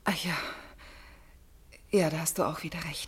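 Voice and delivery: whisper. Acted. Resigned aside to mother.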